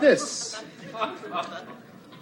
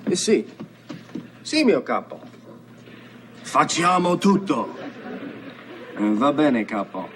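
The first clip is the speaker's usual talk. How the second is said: low, gruff Italian gangster talk on the phone; playing a Sicilian mob man; mock Italian mobster accent; 6 semitones lower than usual. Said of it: "I hear those phone calls in Sicilian".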